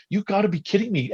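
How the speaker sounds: half-laughing can't-believe-it line; disbelief. Retold or imitated. Reacting to teammate faking a knockout, high mock disbelief. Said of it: "And I'm like".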